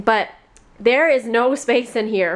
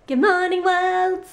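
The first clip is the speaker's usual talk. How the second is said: cheerful greeting; 8 semitones higher, slower than usual. Real, not acted. Cheerful vlog greeting on camera.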